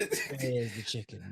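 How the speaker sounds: slow, drawn-out hint of a hungry belly; lightly voiced stomach. Teasing co-host as his growling stomach, slow mock plea. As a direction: stretch it out, lightly playing a complaining stomach. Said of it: "You were like".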